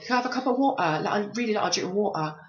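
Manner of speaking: a hint of a standard white American accent on "water"; imitating a white speaker. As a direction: lightly mimic how a white person would ask for "water". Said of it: "somebody came to you and said".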